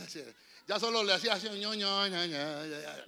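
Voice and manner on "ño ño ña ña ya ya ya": mock gummy babble, lightly done; toothless mumbling. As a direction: babble like an old woman who can't speak. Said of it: "no podía hablar".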